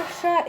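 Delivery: श as a clear hushing sh; pronunciation demo. Shown as a demonstration. Teacher shows the right sibilant, श said as hushing sh. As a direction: let श ring as sh, not s. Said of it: "इस तरह से करेंगे".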